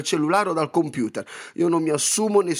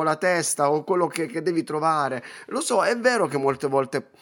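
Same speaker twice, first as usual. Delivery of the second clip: usual speaking voice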